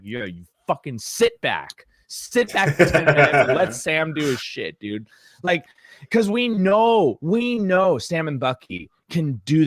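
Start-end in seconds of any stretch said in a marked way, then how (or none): 0.0-5.1 laughing jeer. Retold or imitated. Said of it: "I'm just like".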